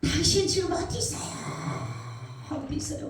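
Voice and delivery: high, strained acted cry; re-enacted scream without full volume; crying out in a dream. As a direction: call out desperately, pitch way up. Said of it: "막 소리, 소리 지르는 거예요".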